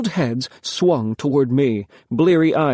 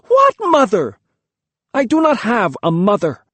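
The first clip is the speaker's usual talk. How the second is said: very high, loud wild cry; half-laugh, half-scream it; wild bitter cry; 9 semitones higher, 4 dB louder than usual. A narrator's reading. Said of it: "I laughed wildly".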